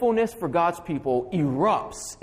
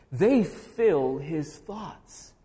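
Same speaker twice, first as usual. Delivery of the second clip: very slow, each word weighted, stress on They; slow emphatic statement; much slower than usual. Acted. Preacher to congregation, announcing his sermon point slowly. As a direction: lay the point down slowly and deliberately.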